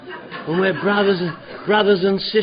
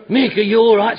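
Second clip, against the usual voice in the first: concerned call; 3 semitones higher, 9 dB louder than usual. Retold or imitated. Friends calling out in concern.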